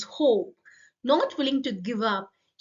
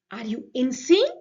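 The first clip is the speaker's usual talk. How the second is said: snake's scorn; 6 dB louder than usual. Acted. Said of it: "hissed the snake".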